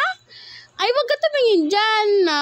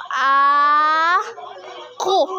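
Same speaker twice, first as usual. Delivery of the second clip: put-on cooing for baby to copy; 3 semitones lower than usual. Shown as a demonstration. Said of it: "Gayahin mo".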